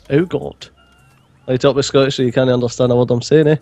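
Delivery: broad Scottish, words run together; exaggerated, hard-to-follow Scottish accent; thicker Scottish accent. Shown as a demonstration. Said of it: "you need to up the Scottish".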